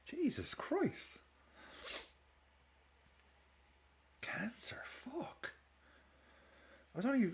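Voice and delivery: numb whisper of real shock; stunned whisper. Real, not acted. Stunned by news of death.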